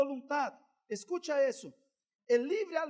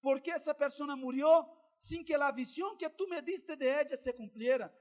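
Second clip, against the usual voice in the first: starts pleading, ends in a louder, higher cry; retold weeping prayer that swells to a loud plea; anguished prayer rising to a cry; 4 semitones higher, 5 dB louder than usual. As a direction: let the grief build until you cry out to God. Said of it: "comencé a llorar y dije".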